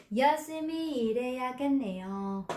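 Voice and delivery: Yoshimi ireyagenneyo read very slowly, syllable by syllable; teacher spells out Yoshimi ireyagenneyo slowly; drawn-out demonstration reading; slow model reading. Shown as a demonstration. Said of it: "đọc cái này giống như đứng ngoài này".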